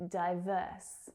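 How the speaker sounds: "Diverse" as die-VERSE, second syllable held; stress on second syllable. Shown as a demonstration. Teacher showing learners the stressed syllable, "Diverse" with weight on VERSE. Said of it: "second syllable is the stressed one".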